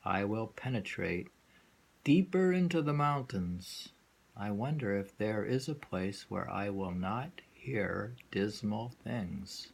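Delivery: unhurried, deliberate verse recital. Acted. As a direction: let each line of the poem settle. Reads the next poem slowly.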